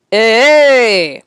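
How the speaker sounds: loud protesting shout. Acted. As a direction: call out in protest.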